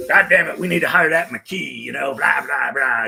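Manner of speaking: put-on loud, gruff old fire chief; gruff Mac impression. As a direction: bark it like a crusty old chief. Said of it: "He had a really gruff voice".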